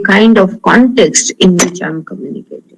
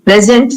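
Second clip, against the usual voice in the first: PRESent, stressed on the first syllable; "Present" said as the noun, stress up front; 3 semitones higher than usual. Shown as a demonstration. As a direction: lean on PRES in "Present". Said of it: "if the stress is on the first syllable".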